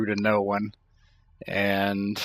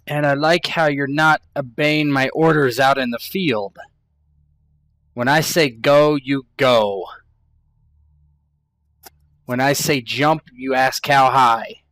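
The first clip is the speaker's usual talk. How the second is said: stern scolding; 3 semitones higher, 4 dB louder than usual. Acted. Captain scolding crew in quarrel.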